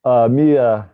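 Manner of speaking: muffled, like through a wall; bad mic, sound muffled and dull. Real, not acted. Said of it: "Your voice sounds different, muffled".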